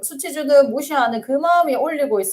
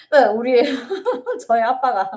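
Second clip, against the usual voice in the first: laughing through the words; half laughing, half choked up. Real, not acted. Counselor laughing as she starts her father story.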